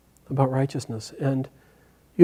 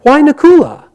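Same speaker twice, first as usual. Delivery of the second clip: higher and louder, a spirit baffled by the choice; incredulous yaksha; 6 semitones higher, 8 dB louder than usual. Acted. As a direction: demand why, in loud disbelief. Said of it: "And the yaksha says".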